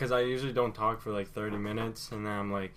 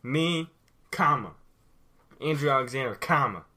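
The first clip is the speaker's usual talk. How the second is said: dramatic pauses; 4 dB louder than usual. Pretend. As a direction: pause after each comma. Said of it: "it's for dramatic purposes".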